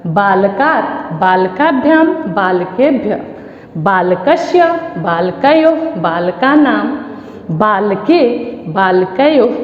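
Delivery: each form said separately and evenly, with pauses; measured classroom drill, stretched syllables; model declension recitation. Shown as a demonstration. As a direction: recite the Sanskrit table for pupils to follow. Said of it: "अब इसको फिर से मैं पढ़ती हूँ".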